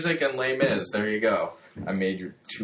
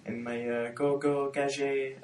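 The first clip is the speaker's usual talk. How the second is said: Inspector Gadget impression; 3 semitones higher, slower than usual. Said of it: "it's Inspector Gadget".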